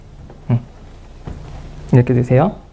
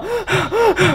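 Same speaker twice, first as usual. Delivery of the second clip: high falling gasp, acted; demo gasp; 13 semitones higher, 3 dB quieter than usual. Shown as a demonstration. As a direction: show a short startled intake of breath. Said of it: "우리 몸이 이완됐을 때는요". (시범으로 헉 하고 들이쉬는 소리)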